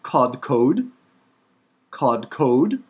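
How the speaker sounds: KODKOD with two hard k sounds; Hebrew pronunciation demo. Shown as a demonstration. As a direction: model kodkod clearly for learners. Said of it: "Hebrew word for forehead".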